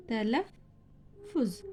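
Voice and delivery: तलफ़ुज़ drawn out very slowly, each syllable clear; slow model reading. Shown as a demonstration. Teacher models तलफ़ुज़ for students, very slow and clear. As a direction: stretch तलफ़ुज़ out slowly for the class. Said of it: "पढ़िए जैसा तलफ़ुज़".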